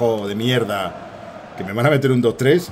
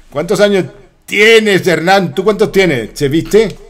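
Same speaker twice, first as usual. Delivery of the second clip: high, loud Argentinian imitation; mock Argentinian accent; 6 semitones higher, 4 dB louder, slower than usual. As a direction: tease Hernán in a raised Argentinian lilt. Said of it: "No estoy imitando a mala leche".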